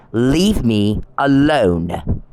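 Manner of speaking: very slow, weighted "Leave me alone"; emphatic demand. Retold or imitated. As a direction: space out each word of "Leave me alone". Firm repeated demand to be left alone.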